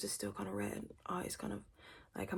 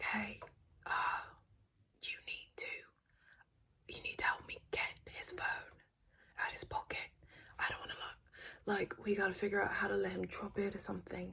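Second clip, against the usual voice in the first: plotting whisper. Retold or imitated. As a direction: plot it under your breath. Plotting to grab phone.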